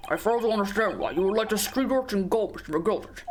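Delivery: lightly voiced disapproving official; stern lord in court. Lord querying why the urchin was let go, stern. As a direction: challenge the witness with formal disdain. Voicing lord questioning witness.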